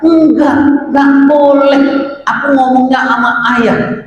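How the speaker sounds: put-on a child stubbornly insisting on dad; insistent child.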